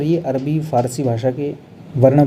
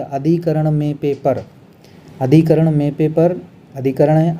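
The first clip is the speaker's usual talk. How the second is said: slow, stressing अधिकरण; teacher repeating a rule; slow recall; slower than usual. Shown as a demonstration. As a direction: drill अधिकरण में पे पर deliberately. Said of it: "मैंने बत-, क्या बताया था".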